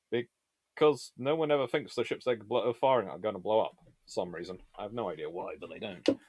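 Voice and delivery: ordinary talk, nothing marked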